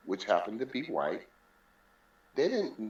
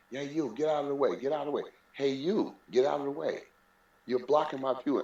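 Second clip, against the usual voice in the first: mock yell; 4 semitones higher than usual. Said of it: "He was yelling in front of everybody".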